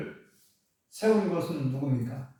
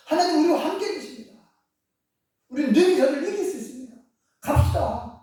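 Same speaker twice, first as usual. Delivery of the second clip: high, loud, urgent plea to march; rally the frightened crowd to go; rousing appeal; 10 semitones higher, 4 dB louder than usual. Acted. Caleb rallying the people, high and loud excited urging.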